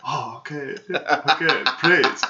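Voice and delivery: lightly voiced frightened captive; meek agreeing. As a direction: give in timidly. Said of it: "he's like".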